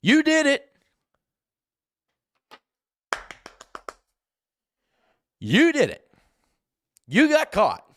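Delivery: very high, loud accusing shout; shouted berating. Real, not acted. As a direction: yell it at him, challenging his manhood. Berating the absent suspect loudly.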